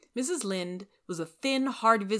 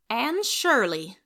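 slow, high, loud exclamation; crying out; 6 semitones higher, 7 dB louder, much slower than usual. Acted. Rachel crying out at the orphan's name, high and slow. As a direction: cry the name out. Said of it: "cried Missus Lynde".

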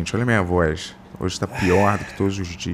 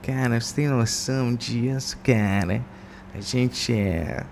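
impression of his friend; 3 semitones higher, 5 dB quieter, slower than usual. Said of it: "faz a minha imitação aí".

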